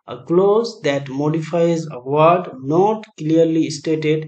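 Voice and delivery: very slow, measured reading of the options; slow quiz reading. Acted. Teacher dictating quiz options to students, very slow. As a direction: drag each option out for note-taking.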